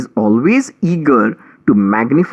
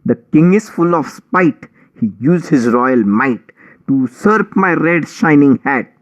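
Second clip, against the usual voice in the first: whiny mouse; 2 semitones higher than usual. Acted. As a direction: play the weepy victim, whining. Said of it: "wailing and weeping".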